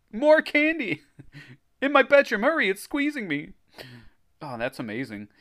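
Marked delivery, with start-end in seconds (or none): 0.1-1.0 very high, loud comic squeal; exaggerated choked cry. Reader replaying strangled Greg for laughs, hammed-up squeal. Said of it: "Greg choked". 1.8-3.5 very high hammed-up squeal; exaggerated choked cry. Reader replaying squeezed Greg for laughs, hammed-up squeal. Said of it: "Greg choked".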